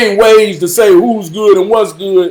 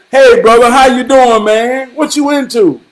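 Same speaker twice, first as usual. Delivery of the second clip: friendly greeting; 5 semitones higher, 4 dB louder than usual. Retold or imitated. Greeting the guitar kid.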